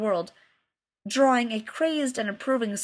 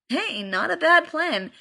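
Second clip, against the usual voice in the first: scheming; 7 semitones higher, 4 dB louder, slower than usual. Acted. Chad scheming.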